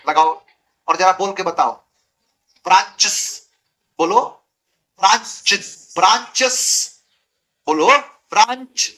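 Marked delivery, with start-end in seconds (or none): 2.6-3.5 ब्रांचेस with a hissed s straight after च; hard-to-say plural. Shown as a demonstration. Teacher testing whether students can say it, awkward plural. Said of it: "बोल पा रहे हो? नहीं". 5.0-6.9 ब्रांचेस with a hissed s straight after च; hard-to-say plural. Shown as a demonstration. Teacher testing whether students can say it, awkward plural. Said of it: "बोल पा रहे हो? नहीं".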